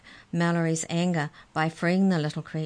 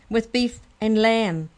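high, loud, slow glee; laughing; 6 semitones higher, 7 dB louder, slower than usual. A narrator's reading. Molly adding to the pie joke, laughing. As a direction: pile on the joke with drawn-out relish. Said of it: "laughed Molly".

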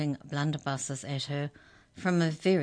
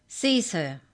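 ordering; 4 semitones higher, 5 dB louder than usual. Acted. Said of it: "she ordered".

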